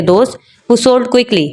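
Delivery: falling close on quickly before the break; pause after quickly. Shown as a demonstration. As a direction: keep "sold quickly" together, then stop. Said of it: "यहाँ तक जो है ना हम pause देते हैं". (quickly तक बोलकर रुकें)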